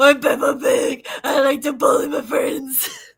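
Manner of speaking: death-metal-band character voice. Playing Peppa Pig as if she were in a metal band, sounding like Batman. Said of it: "and I sound like Batman".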